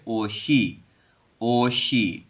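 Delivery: ओशी with sh carried into the second syllable; linked reading. Shown as a demonstration. Teacher models the carry-over rule, linked ओशी. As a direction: open ओ, then शी. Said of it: "इसको पढ़ेंगे".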